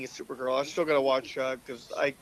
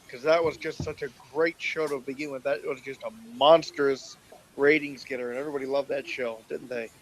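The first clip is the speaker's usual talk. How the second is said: sarcastic. Real, not acted. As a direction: praise it as if you mean the opposite.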